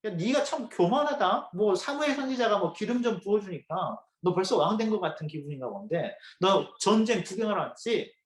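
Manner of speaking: mildly acted big-brother telling-off; angry scolding. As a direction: retell an older brother's accusing rebuke, with restrained heat. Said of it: "막 화를 내면서 뭐라고 하냐면". (화내며 몰아붙이는 형 흉내)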